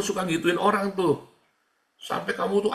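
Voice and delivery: ordinary talk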